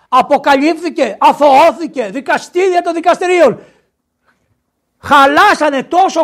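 high, loud ranting outburst; indignant tirade. Real, not acted. Preacher rails at those silent after the acquittal, indignant shouting. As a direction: rail at them at full voice.

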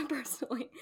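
"Personally" repeated through a laugh. Shown as a demonstration. Echoing her own word to the hosts, laughing. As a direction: laugh while stressing "Personally".

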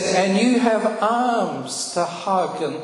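lightly voiced divine comfort; still small voice of God. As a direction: speak gently as God to a broken man. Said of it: "And he said".

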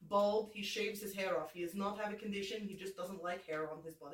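put-on deadpan comic Russian accent. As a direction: introduce your character in a put-on Russian accent. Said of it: "person that this Russian accent would".

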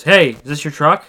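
lightly voiced gas-station stranger; moving-truck guy. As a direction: imitate a guy hailing someone at a gas station. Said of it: "this guy from one of those".

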